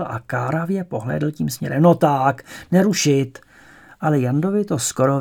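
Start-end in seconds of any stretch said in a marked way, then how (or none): 1.8-3.4 loud reproving hush; scolding teacher. Acted. Supervising teacher scolds a shouting pupil, loud reproof. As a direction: call the back row to order.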